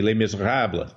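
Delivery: Les Miserables said the French way, light French accent. Shown as a demonstration. Host naming last night's movie, in a French accent. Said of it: "Like that French accent?".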